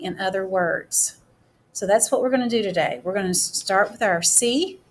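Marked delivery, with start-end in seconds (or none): 0.0-1.2 slow sentence starter. Shown as a demonstration. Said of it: "sentence starter will be".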